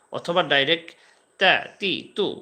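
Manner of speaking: তা, তি, তু said straight and loud; loud direct drill; direct syllables. Shown as a demonstration. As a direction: punch out তা তি তু directly. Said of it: "দুইটা পদ্ধতিতে কিন্তু আমি বলছি".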